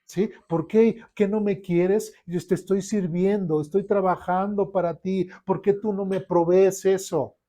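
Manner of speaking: mock whiny grumble; whiny complaint to God. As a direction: complain like a spoiled believer. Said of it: "o imagínense yo".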